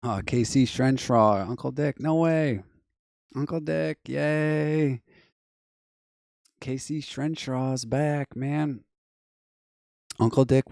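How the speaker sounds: high, loud happy welcome back; excited greeting. Real, not acted. Greeting a returning viewer.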